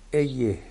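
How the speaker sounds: Eyeh said the Hebrew way, drawn out with a rise; Hebrew pronunciation. Shown as a demonstration. Preacher apologizing for his accent, saying Eyeh in Hebrew. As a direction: give Eyeh its Hebrew sound, long. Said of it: "excusez mon accent".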